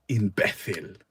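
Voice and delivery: imbécil with the Spanish theta, stressed on bé; Spanish accent. Shown as a demonstration. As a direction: roll out imbécil the way they say it in Spain. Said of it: "That's how they say it in Spain".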